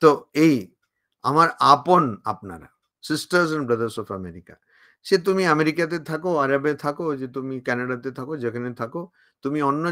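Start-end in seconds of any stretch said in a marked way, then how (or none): 3.0-4.5 very slow, each word weighed; slow solemn quote. Retold or imitated. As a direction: recite it slowly like a famous opening. Quoting Vivekananda's opening again. (ধীরে, গম্ভীর উদ্ধৃতি)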